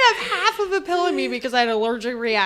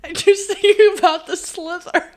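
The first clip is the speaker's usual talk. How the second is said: laughing; 3 semitones higher than usual. Real, not acted. Explains while laughing.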